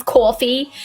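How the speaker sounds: "coffee" as "cawfee", New York style; slipping into New York on "coffee"; New York accent. Shown as a demonstration. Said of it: "my New York comes back if".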